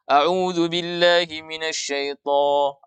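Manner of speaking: slow recitation, SYAITHO with a heavy T and no puff; tidak ada angin. Shown as a demonstration. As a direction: chant it evenly, breath held back on SYAITHO. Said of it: "Tidak ada angin yang mengalir". (SYAITHO dibaca tebal tanpa angin)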